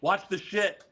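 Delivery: high, urgent imitated caution; mock warning. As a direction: imitate a worried warning mid-fight. Warning during every move, retold.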